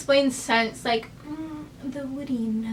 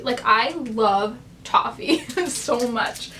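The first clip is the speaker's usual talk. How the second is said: slow, with a laugh; drawn out, laughing through it; much slower than usual. Real, not acted. Repeats it, laughing.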